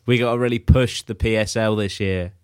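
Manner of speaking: mock corporate pitch; marketing exec voice. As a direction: parody a keen marketing head. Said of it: "I bet they fucking talk like this".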